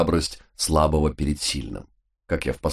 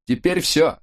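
high excited; 11 semitones higher than usual. Acted. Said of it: "пародируя вольным миксом".

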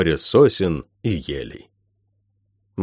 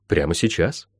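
lower, softer, settled reply; firm confirmation; 4 semitones lower, 5 dB quieter than usual. Acted. Healer answering frightened Molly, quietly firm.

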